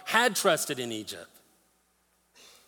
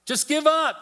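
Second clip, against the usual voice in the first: high, louder, sneering "Just give up"; taunting enemy voice, pitched way up; mocking jeer; 12 semitones higher, 5 dB louder than usual. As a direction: throw the enemy's jeer at them. Voicing the enemy's final jeer.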